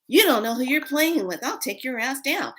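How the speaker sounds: high-pitched retold tough talk; worked-up mock threat; fighting threat. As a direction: taunt the beaten monster. Retold threat during dream fight.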